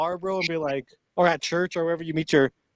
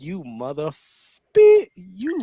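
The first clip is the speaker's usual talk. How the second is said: angry wife; 6 dB louder, much slower than usual. Acted. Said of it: "His wife's like".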